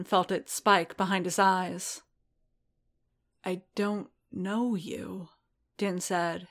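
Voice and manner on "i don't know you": quiet, slow, voice cracking with hurt; voice breaking. Acted. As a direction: choke the words out softly. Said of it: "his voice breaking".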